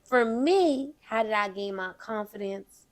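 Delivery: put-on Southern belle voice; Southern accent. Host starts on confidence, keeping up the Southern accent. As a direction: settle into a deliberate Southern accent. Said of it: "I'ma keep this accent going".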